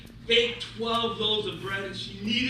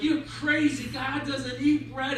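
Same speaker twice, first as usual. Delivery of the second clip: mock yelling; 3 semitones higher than usual. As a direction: scold him in a half-acted yell. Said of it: "the rabbi started yelling at him".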